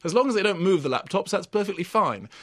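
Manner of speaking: a hint of a dithering old aristocrat; mock Lord Chamberlain. Critic imagines the Lord Chamberlain on laptop clubs, lightly voiced. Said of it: "you and the Lord Chamberlain".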